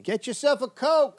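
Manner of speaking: high-pitched shouted sales call; mock calling out. Heckling over co-host's laughter, high mock holler. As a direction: holler it out like a hawker.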